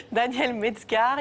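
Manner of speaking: drawn out, suppressing a giggle; slow, holding back laughter. Real, not acted. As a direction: force the name out slowly. Reading the name through laughter.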